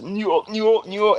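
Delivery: mock a rapper repeating his catchphrase, high. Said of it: "that's all the rapper".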